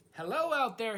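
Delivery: high, loud call across the water; shouting. Acted. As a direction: call out loud to someone far away. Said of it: "he shouted".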